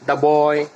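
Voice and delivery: put-on "the boy" with the said as "da"; "the" as দা before consonant. Shown as a demonstration. Teacher giving a consonant example, "the boy" with "da". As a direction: open vowel in "the" before "boy". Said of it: "সেই ক্ষেত্রে আমরা বলবো দা".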